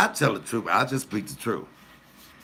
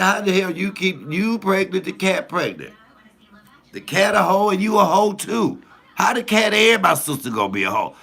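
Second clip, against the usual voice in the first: much higher, louder, scandalized scolding at the sister; mock outraged scolding; 11 semitones higher, 6 dB louder than usual. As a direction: scold her like it's a scandal. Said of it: "I said".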